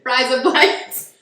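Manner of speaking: slow, drawn-out Australian "razor blades"; Aussie accent demo. Shown as a demonstration. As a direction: show off the Australian accent trick, slowly. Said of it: "that is how they say it".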